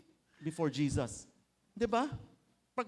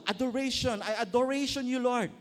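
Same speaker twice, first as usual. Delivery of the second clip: loud, stiff broken-English praying; hammed-up churchy prayer; mock formal prayer; 4 semitones higher, 8 dB louder than usual. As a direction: parody a rote prayer formula. Mock formulaic ACTS prayer.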